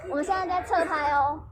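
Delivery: ordinary talk, nothing marked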